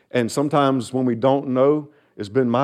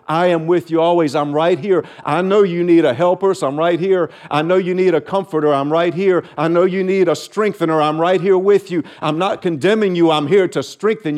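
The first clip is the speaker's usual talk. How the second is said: raised, earnest comfort; reassuring divine voice; 3 semitones higher, 3 dB louder than usual. Acted. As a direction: build each promise with growing earnestness. Pastor voicing God reassuring believers.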